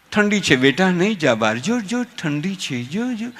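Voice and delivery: soft, slow, hushed coaxing; a mother bundling her child up against the cold, soft and slow; doting mother. Retold or imitated. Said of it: "એવું ઢબુરી દે".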